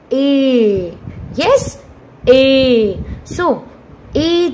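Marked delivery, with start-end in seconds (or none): 0.1-1.0 "A" held as a long vowel; vowel sound demo. Shown as a demonstration. Teacher showing the sound A will produce, held vowel. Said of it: "A will produce sound". 2.3-3.0 "A" held as a long vowel; vowel sound demo. Shown as a demonstration. Teacher showing the sound A will produce, held vowel. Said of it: "A will produce sound".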